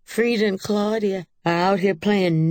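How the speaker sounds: high, loud tattling call; hollering. A narrator's reading. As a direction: yell for the neighbor's mother to come. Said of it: "Rosemary hollered".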